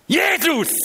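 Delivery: high, loud cry of "Jesus!"; desperate call. Retold or imitated. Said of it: "Ich habe gerufen".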